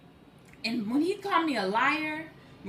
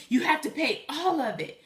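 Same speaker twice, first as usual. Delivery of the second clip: mildly raised mock demand; antagonistic; 3 semitones higher, 3 dB louder than usual. Scammer demanding she pay all of it, mildly antagonistic. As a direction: imitate an insistent, fussing caller. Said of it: "angry and antagonistic and fussing".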